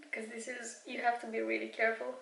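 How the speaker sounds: speaking on a held breath; tight, breath held while concentrating; holding breath. Real, not acted. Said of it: "I, I'm holding my breath".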